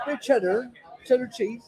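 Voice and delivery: put-on hamming up a Somerset yokel accent; mock West Country accent. Teasing Paul about Somerset in a mock West Country accent. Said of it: "You bloody talk like that".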